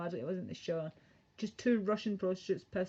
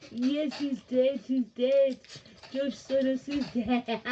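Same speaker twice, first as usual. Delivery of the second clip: excited; 4 semitones higher, 6 dB louder than usual. Real, not acted. Dog talk calming.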